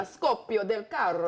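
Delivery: put-on Italian accent, lightly done. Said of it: "I'm gonna say this with my Italian accent".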